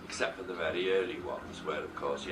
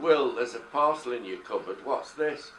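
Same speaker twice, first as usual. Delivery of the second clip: a loud, raised call through the house; shouted; 5 semitones higher, 6 dB louder than usual. Retold or imitated. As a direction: call out to Will from upstairs. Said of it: "And I shouted".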